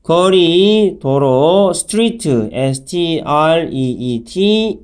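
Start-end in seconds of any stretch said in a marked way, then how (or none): 2.5-4.8 slow letter-by-letter spelling; slow teacher spelling. Shown as a demonstration. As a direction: spell out P E E L one letter at a time. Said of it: "spelling the word out".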